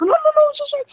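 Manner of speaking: high, panicky rush of no-no-no; mortified blurted apology; backing out in a high fluster. Acted. He's like.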